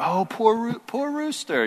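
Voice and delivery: high-pitched mock pity; exaggerated high childlike sympathy; imitated kids. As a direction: imitate little kids cooing over a sad character. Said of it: "They're, like, laughing and like".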